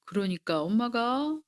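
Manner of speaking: usual speaking voice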